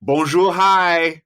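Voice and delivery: coy cheerful greeting; playful teaser greeting. Pretend. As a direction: tease the destinations with a cheerful hello. Teasing destination with a greeting.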